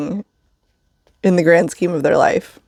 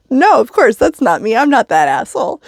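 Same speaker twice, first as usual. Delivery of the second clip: mock innocent denial; 6 semitones higher than usual. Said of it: "I was like".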